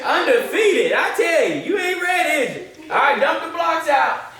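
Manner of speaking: playful hype. Real, not acted.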